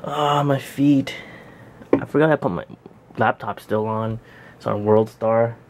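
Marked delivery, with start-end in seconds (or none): 0.0-1.1 slow, aching groan of words; sore muscles. Real, not acted. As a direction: moan it out in pain. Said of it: "I'm so sore right now".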